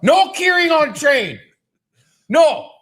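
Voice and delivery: high, loud, slow hammed-up French detective; mock French accent. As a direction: lay down the law like a cartoon French sleuth. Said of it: "the stupid French accent".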